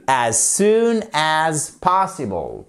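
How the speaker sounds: POSSIBLE stressed on the first syllable, slow. Shown as a demonstration. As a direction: say "possible" with the weight on POS. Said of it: "Possible, vous mettez bien l'accent tonique sur la première syllabe".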